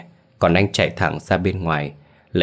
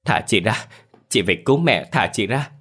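understated angry demand to let go; lightly acted snap at a brother; mild scolding shout; 3 semitones higher than usual. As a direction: insist on being released, voice only slightly raised. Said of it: "đẩy anh Ngọc ra mà quát".

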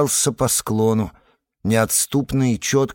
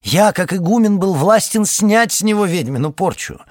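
higher, louder hammed-up pomp; overacting; 8 semitones higher, 5 dB louder than usual. Kai boasting to the naive ferryman, overacted. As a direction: ham it up like a pompous abbot. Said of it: "несколько переигрывал".

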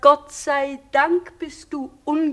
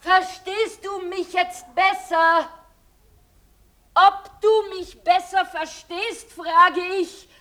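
slow, loud and higher, every word spelled out; speaking loudly; 5 semitones higher, 3 dB louder, slower than usual. Acted. Woman on a bad line repeating herself, slow and loud. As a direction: project each word down a faint line. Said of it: "Ich spreche doch ganz laut".

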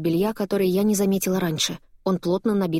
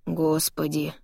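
crushed; much slower than usual. Acted. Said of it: "с убитым видом произносит Алекс".

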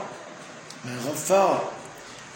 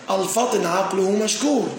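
slow example reading; 3 semitones higher, slower than usual. Shown as a demonstration. Teacher reading the example sentence to students, slow and deliberate. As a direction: read the example slowly and deliberately. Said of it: "لو قلنا".

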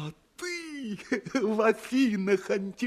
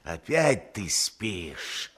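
ordinary talk

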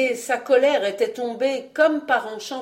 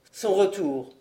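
machinalement. Acted. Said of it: "répéta-t-il machinalement".

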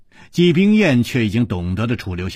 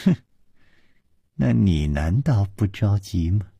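leisurely chuckle; 2 semitones lower than usual. Acted. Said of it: "悠悠地笑着说".

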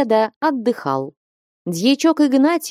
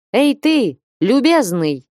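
high, louder hail to a stranger; calling out; 6 semitones higher, 4 dB louder than usual. A narrator's reading. Samokvasov hailing the watchman from his cart, loud high call. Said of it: "крикнул Самоквасов".

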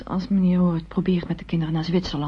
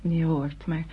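hushed, half-whispered admission; confiding whisper; 3 semitones lower, 5 dB quieter than usual. Acted. Nicole quietly tells her mother her real reason, whispered. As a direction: lower your voice as if sharing a secret. Nicole confesses love for John.

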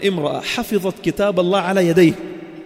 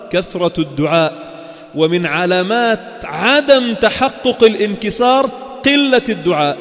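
forceful preaching; slower than usual. Acted. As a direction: lean on each phrase like a pulpit preacher.

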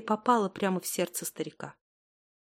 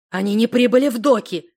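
louder shouted news; shouting; 8 dB louder than usual. A narrator's reading. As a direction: burst in shouting the bad news. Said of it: "выкрикнул он".

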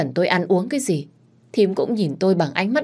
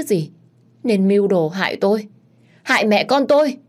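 sharp, accusing voice rising higher and louder at the end; glaring accusation; 4 semitones higher, 3 dB louder than usual. Acted. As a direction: hurl the blame at her stepmother-in-law, high and angry at the close. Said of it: "Chị Trâm lúc này trừng mắt". (giọng buộc tội gay gắt, cao vút và to dần ở cuối)

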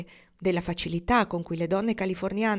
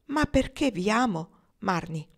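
ingenuous candor; 3 semitones higher, slower than usual. Acted. Suitor answering the woman who doubts him, guileless and earnest. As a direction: answer as if it were obvious. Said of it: "con ingenuo candore".

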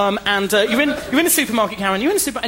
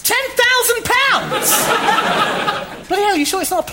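stunned disbelief at the amount; open-mouthed shock at the figure; 14 semitones higher than usual. Acted. Bank adviser shocked by loan.

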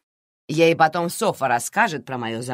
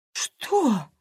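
gasping; 9 semitones higher than usual. A narrator's reading. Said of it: "ахнула Карина".

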